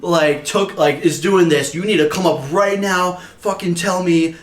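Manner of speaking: mock stern coach ordering a confession; pissed off. Golf coach demanding the prankster come up, pissed off. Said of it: "he was pissed".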